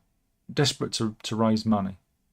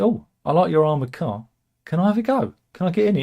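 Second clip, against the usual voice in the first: high-pitched, louder eager impression; Kim Jong-un; 6 semitones higher, 4 dB louder, faster than usual. North Korean leader admiring Putin's car, high eager impression. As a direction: put on a high, keen little leader's voice. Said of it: "I imagine Kim Jong-un talks like that".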